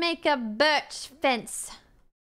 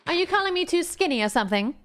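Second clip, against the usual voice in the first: offended; 3 semitones higher, faster than usual. Pretend. Offended diva to chat.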